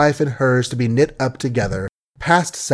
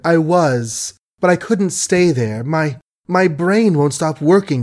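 weary complaint; 5 semitones higher than usual. Acted. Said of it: "she complained wearily".

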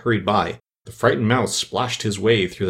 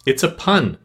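offended; 6 semitones higher than usual. A narrator's reading. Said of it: "in an offended tone".

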